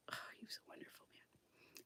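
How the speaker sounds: hushed, moved by the memory; fond whisper. Real, not acted. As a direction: breathe it out as a tender whisper.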